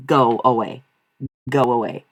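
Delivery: firm, angry dismissal; real irritation, pushed out firmly; real anger. Real, not acted. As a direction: send them away, angrily, word by word. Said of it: "that made me so angry".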